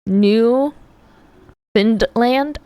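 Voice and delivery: New, pause, Finland, rising unsurely; sounded out. Real, not acted. Streamer trying out a Canadian place name, sounded out. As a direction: say New and Finland as two separate words.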